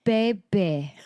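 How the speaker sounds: put-on toddler sounding out "Baby" in two separate syllables; toddler imitation. Mother imitating her son's attempt at "Baby", halting toddler voice. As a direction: copy a child carefully forming "Baby", stretched out. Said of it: "He said".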